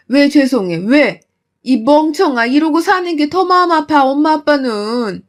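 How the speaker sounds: angry scolding. Acted. Mother scolding daughter for apologizing, upset. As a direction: scold her out of love.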